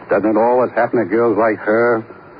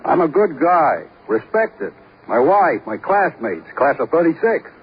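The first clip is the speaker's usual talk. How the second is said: higher, pushing insistence; indignant protest; 5 semitones higher than usual. Acted. Suspect insisting to the detective he is respected, indignant. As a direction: defend your good name hard.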